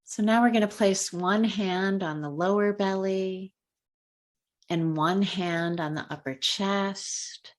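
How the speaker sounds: unhurried guiding voice with long pauses; calm, measured meditation lead; guided meditation. Real, not acted. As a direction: ease them gently through a color meditation, leaving space between phrases. Leads a color meditation.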